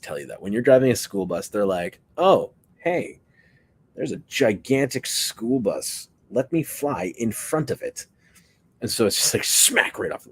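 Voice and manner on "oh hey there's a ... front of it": high, cheerful voice for a dumb bird; mock bird voice. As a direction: play the bird that is oblivious and chirpy. Voicing a bird before the bus.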